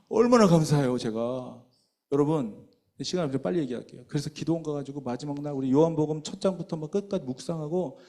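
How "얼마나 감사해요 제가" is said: exclaiming. Real, not acted. Preacher exclaims gratitude.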